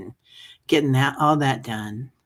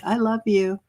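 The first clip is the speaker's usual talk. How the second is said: higher-pitched, gushed I love you; gushing affection; 8 semitones higher than usual. Retold or imitated. Host imitating herself greeting people she sees, gushing affection. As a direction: blurt affection in a raised pitch. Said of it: "I'm like".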